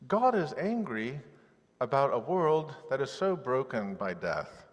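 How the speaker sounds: slow, punched declaration; preacher stressing God's anger to congregation, emphatic; emphatic preaching. Acted.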